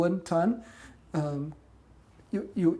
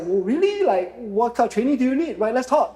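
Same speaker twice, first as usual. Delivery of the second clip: retold excitement; 4 semitones higher, 4 dB louder than usual. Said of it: "I was like".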